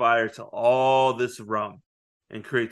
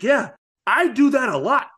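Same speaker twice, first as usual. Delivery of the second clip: high, laughing pirate voice pitched well up; a cheeky, amused Captain Jack; playing Jack Sparrow; 11 semitones higher, 3 dB louder than usual. Jack telling someone he always tells the truth, higher, laughing. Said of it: "and he's like".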